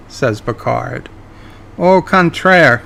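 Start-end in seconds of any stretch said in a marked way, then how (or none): 1.8-2.8 slow, higher mock-French flourish; smug Q. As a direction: savour the French with smugness. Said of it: "Q says".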